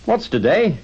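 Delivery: high, loud eager call. A narrator's reading. Scrooge calling down to a boy, high excited call. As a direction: call down to someone in the street below. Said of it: "calling downwards to a boy".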